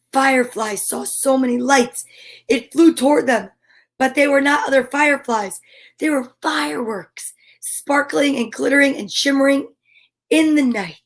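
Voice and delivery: gentle storybook reading; story narration. Acted. Parent reading Eric Carle to a child, gentle storybook voice. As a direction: read the picture book to a little one. Reads picture book aloud.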